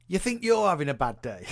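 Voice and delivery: real giggle creeping into the words; starting to laugh. Real, not acted. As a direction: try to announce it without cracking up. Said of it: "you just start laughing".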